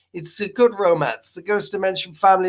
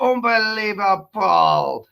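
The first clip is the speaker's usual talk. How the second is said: exasperated cry; 2 semitones higher, slower than usual. Real, not acted. Exasperated at the dog.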